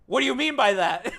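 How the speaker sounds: loud, high mock-shocked question; laughing, loud disbelief; astonished outburst. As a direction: blurt it out in giddy disbelief. Reacts to hint of texting.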